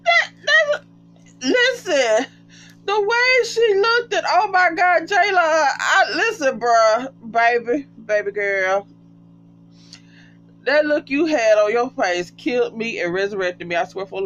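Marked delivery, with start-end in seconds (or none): 0.0-8.9 high, breaking, crying with laughter; laughing hard. Real, not acted. Vlogger talking to Jaylon through hard laughter, high and breaking. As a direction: gasp it out between laughs.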